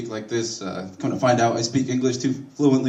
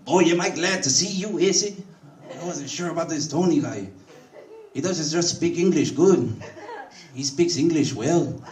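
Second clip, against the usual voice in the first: higher, gossiping with relief; relieved Jose; 4 semitones higher than usual. Retold or imitated. Jose tells cousin Issy his doubts, higher gossipy relief. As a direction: confide in the cousin like an old friend. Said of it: "Jose go to my cousin like".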